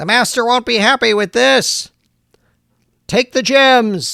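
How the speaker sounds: high, tinny robotic voice, like through a can. Running a game, voicing gem-stealing creatures, mechanical voice. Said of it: "they speak in a very mechanical voice".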